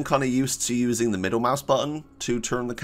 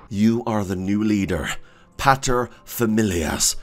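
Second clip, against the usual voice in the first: a touch of grand movie trailer narrator; epic voice; 3 semitones lower than usual. Acted. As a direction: read it out like a solemn epic. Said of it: "You have to put on the epic voice for this".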